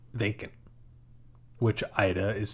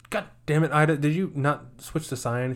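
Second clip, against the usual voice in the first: mock exasperated scolding; 5 semitones higher than usual. Vincent scolds Ida, retold.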